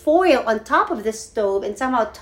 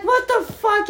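alarmed; 12 semitones higher, slower than usual. Retold or imitated. Spotting the fire next door, high alarmed outburst. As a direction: blurt it in alarm.

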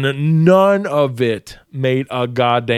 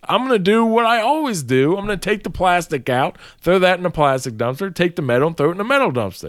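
defiant refusal; 5 semitones higher than usual. Retold or imitated. Refusing the boss, retold.

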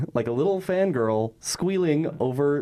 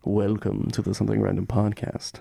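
low sultry announcer voice; sultry narrator; 4 semitones lower than usual. Pretend. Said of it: "sultry bass voice".

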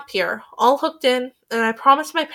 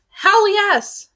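excited shout; 9 semitones higher, 4 dB louder than usual. Acted. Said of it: "she shouts".

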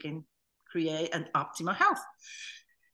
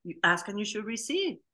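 genie; 3 semitones higher, 3 dB louder than usual. Retold or imitated. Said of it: "como el genie".

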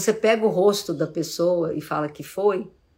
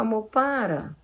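gentle asking; slower than usual. Shown as a demonstration.

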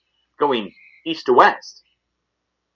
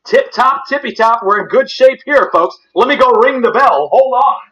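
excited; 9 semitones higher, 6 dB louder than usual. Real, not acted. Excited about good spot.

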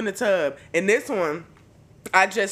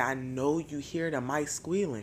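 hushed urging; 3 semitones lower, 7 dB quieter than usual. Retold or imitated. Urging mom at night.

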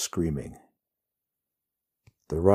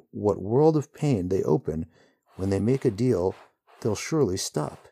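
growling; 7 semitones higher, 3 dB louder than usual. A narrator's reading. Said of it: "the hero growls".

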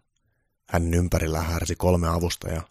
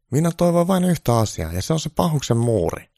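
much higher, loud pleading voice; a needy caricature of Trump; 10 semitones higher, 6 dB louder than usual. Acted. Trump begging Santa for good news, high-pitched.

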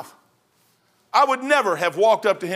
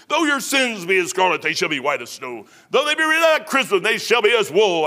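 a touch louder, declaiming Isaiah; scripture recitation; 4 dB louder than usual. Acted. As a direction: proclaim the verse like a preacher.

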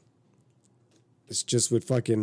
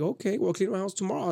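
higher-pitched voice for her challenge; imitated woman; 8 semitones higher than usual. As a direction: lightly voice a woman calling his bluff. Retells woman's challenge to him.

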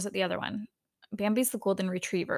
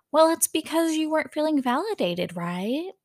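imitated soothing voice, pitched high; Garcelle; 8 semitones higher than usual. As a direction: reassure in a high, gentle put-on voice. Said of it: "speaking very calm and very soft".

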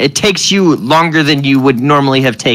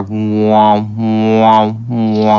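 low humming alarm; 4 semitones lower, much slower than usual. A narrator's reading. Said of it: "a low hum starting up".

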